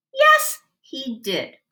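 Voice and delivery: put-on girl insisting to a classmate. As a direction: stand your ground, sharp and sure. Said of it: "she insisted".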